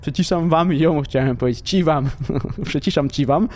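chuckling between attempts; amused giggling. Real, not acted. Player tripping over his own wording, amused giggle. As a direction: stumble over the phrase, laughing.

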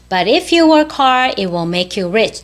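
careful model, slightly sped up. Shown as a demonstration. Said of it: "똑같은 문장인데 조금 빨리".

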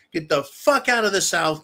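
pissed-off rant yell; angry outburst. Real, not acted. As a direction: tell them off, fed up. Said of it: "That's why I sound like I'm so pissed off".

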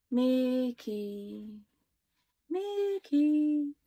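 eerie drawn-out calling; ghostly voice. A narrator's reading. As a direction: call out like a haunting spirit. Eerie voice from the book.

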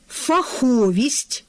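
фаховість, stress on the second syllable: фа-ХО-вість; slow, careful фаховість with the stress on ХО; teacher models фаховість with the stress on the second syllable. Shown as a demonstration. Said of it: "другий наголошений склад".

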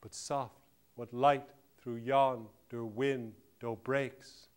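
slow, drawn-out verse recitation; declaimed Shakespeare. Acted. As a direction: spread the line out beat by beat.

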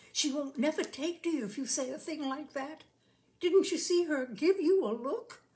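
hushed-then-rising warning to his bride; a hint of an anxious husband; lightly voiced Fred, reproachful. A narrator's reading. Fred scolds Rosie about the pig.

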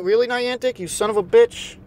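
ordinary delivery

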